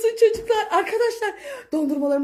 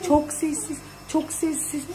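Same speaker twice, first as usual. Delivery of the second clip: hushed, much softer voice; quiet; 3 semitones lower, 8 dB quieter than usual. Real, not acted. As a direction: keep it down so he won't wake. Keeping quiet near sleeping dad. (alçak sesle, fısıltıya yakın)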